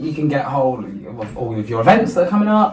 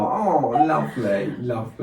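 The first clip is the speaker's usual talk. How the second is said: polite fake admiration; 3 dB quieter, slower than usual. Shown as a demonstration. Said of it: "I always go".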